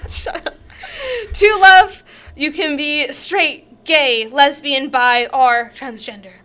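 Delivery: earnest poem recital; dramatic poem read. Acted. Reads poem aloud.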